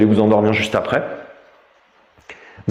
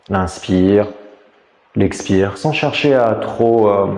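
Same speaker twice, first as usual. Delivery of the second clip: calm, measured meditation voice with long pauses; guided meditation. Real, not acted. Teacher guiding listeners lying down through a body scan, meditative. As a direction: guide them inward, leaving space between phrases.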